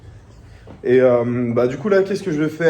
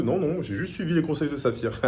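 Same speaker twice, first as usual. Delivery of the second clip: laughing; 3 semitones higher, 6 dB quieter than usual. Real, not acted. Laughs at own joke.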